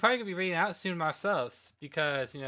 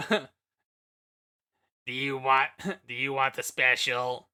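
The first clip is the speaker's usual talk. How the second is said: soothing massage murmur; 4 dB louder, much slower than usual. Pretend. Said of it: "the voice of a masseuse at best".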